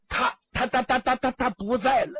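can't get the words out for grief; a mild stammer of grief. Acted. Servant stammers news of death.

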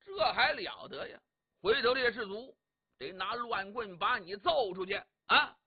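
acted outrage, building in force; blustering scolding. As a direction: scold him with mounting indignation. Cheng scolds the disruptive mourner.

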